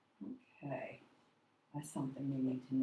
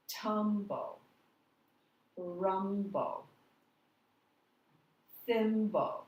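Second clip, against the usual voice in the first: Tumble, rumble, thimble, each first syllable longer and higher; stress on first syllable; 3 semitones higher, 3 dB louder, much slower than usual. Shown as a demonstration. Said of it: "the first syllable is said a, a little longer".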